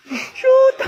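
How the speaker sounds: high, loud cry of "shoot"; high exclamation. Acted. Classmate dismayed by wrong exam answers, high yelp.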